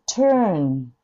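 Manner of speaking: トゥーン ending with the tongue touching for n; ベロをつけてトゥーン. Shown as a demonstration. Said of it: "Nでベロつく".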